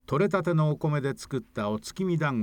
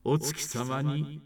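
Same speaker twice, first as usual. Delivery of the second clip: slow solemn god; slower than usual. Acted. God speaks to rabbit.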